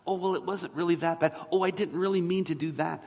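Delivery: a hint of a dismissive excuse-maker; offender downplaying. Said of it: "the offender will always downplay their offense".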